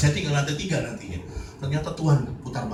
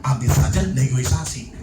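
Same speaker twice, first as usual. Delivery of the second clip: 1 repeated for emphasis; 4 dB louder than usual. Shown as a demonstration. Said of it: "Nah, itu dia".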